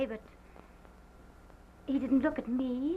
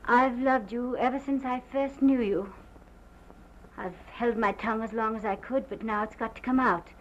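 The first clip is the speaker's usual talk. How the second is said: intense declaration; 6 dB louder than usual. Retold or imitated. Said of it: "He repeated it just like that".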